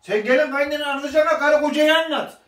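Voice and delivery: loud teasing interruption. Real, not acted. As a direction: cut her off loudly, half laughing. Husband teasingly cuts into her story. (yüksek sesle takılarak araya girme)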